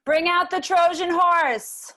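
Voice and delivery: slow, grand tragic command; Greek tragedy. Acted. Lawyer grandly ordering the Trojan horse, slow. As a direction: proclaim it like an epic herald. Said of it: "Greek tragedy".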